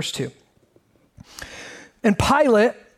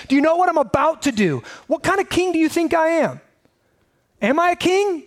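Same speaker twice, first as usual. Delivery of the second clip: voicing Jesus challenging; 3 semitones higher than usual. Jesus voiced challenging Pilate.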